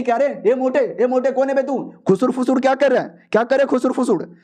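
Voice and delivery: rough challenge. Acted. Dean challenges the whispering kid. (धमकाते हुए सवाल)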